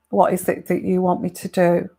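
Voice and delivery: calm, level, emotionless question; non-emotional voice. Shown as a demonstration. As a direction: ask it with no feeling at all. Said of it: "very kind of non-emotional voice".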